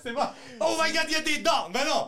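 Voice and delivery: high laughing disbelief. Real, not acted. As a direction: laugh through the words, loud and high. Laughing at an absurd idea.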